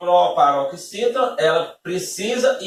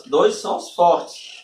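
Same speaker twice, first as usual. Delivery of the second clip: slow, stressed phrase; 2 semitones higher, much slower than usual. Shown as a demonstration. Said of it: "Ó, ó o detalhe".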